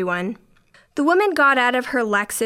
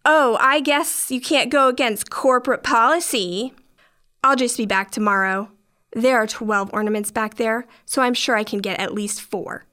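sarcastic parroting of the clerk; mocking voice. Customer mocking cashier's policy excuse, mocking tone. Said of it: "in a mocking voice".

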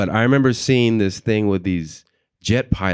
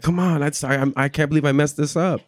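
nervous; 7 semitones higher than usual. Retold or imitated. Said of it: "And I'm nervous".

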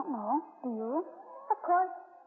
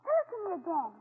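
high, eager, near-crying delight; thrilled; 4 semitones higher than usual. Real, not acted. Grandson begging grandpa to retell the story, high and thrilled. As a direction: beg for more, breathless with wonder.

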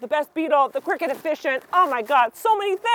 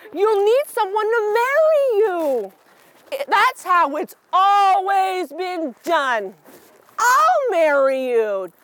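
slow, fussy insect voice; Cricket voice; 4 semitones higher, slower than usual. Acted. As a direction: insist like a pompous little cricket. Cricket insists on tradition.

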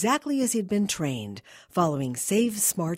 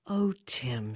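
lower, soft pleading woman; 4 semitones lower than usual. Acted. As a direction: coax him gently. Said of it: "she said in a soft, pleading voice".

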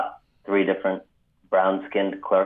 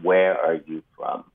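slow menacing gunman; 3 semitones lower than usual. Retold or imitated. Gunman asks victim in store.

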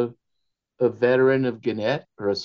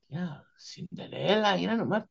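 amazed relatives; 9 semitones higher than usual. Retold or imitated. Family amazed at the bride's name, high and marvelling. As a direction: marvel at it like an astonished aunt. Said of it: "They're like".

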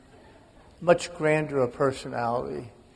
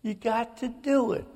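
high, desperate pleading yell; retold screaming; 11 semitones higher than usual. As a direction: scream it at a dying father, begging.

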